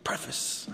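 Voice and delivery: preface as "PREF-iss", dropped low; corrected pronunciation. Retold or imitated. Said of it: "I've heard it both ways".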